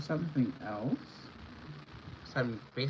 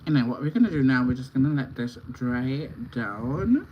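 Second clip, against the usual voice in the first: muffled; 9 dB louder than usual. Real, not acted. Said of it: "if I sound muffled, it's hard to talk with the teeth".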